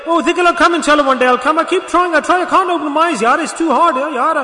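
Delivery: high-pitched put-on complaining voice; mock excuse-making. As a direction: imitate someone pleading that it's too hard. Preacher acts out excuse-maker.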